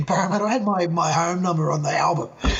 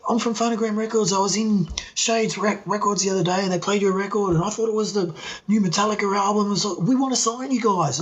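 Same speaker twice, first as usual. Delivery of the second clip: higher-pitched, insistent British record man, lightly imitated; persuasive Pommy caller; 6 semitones higher than usual. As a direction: plead your case as an English caller. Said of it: "he's trying to convince me".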